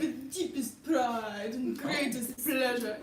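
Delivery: theatrical announcing with laughter; Beauty and the Beast host. Acted. Theater girl quotes a musical, laughing grand announcement. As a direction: present it like a show's host. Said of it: "Like the Beauty and the Beast".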